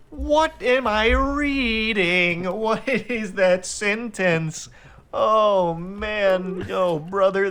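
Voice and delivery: what am I even reading; baffled. Real, not acted. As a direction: stretch it out in total confusion. Baffled by his text.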